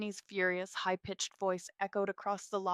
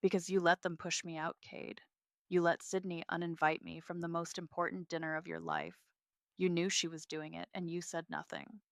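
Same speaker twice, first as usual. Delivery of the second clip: soft but steady. Acted. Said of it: "my voice soft but steady".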